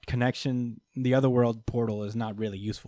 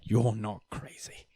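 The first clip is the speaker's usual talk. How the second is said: whisper; slower than usual. Retold or imitated. Captain Britain confides to Rogue.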